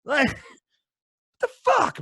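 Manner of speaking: real incredulous laugh mid-rant; laughing disbelief. Real, not acted. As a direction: laugh out the question in angry amazement. Ranting fan laughs in disbelief.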